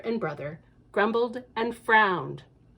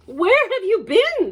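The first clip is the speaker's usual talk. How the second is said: eager question; 10 semitones higher, 5 dB louder than usual. Acted. Family asking Lucy, excited.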